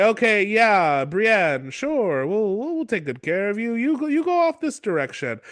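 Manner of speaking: mock-soothing, swooping reassurance; a hint of oily vampire politeness; creepy vampire lord. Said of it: "doing his creepy vampire thing".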